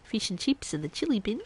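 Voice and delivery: Australian vowels, "feesh and cheeps"; stereotypical Australian accent. Shown as a demonstration. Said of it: "That is a very stereotypical Australian accent".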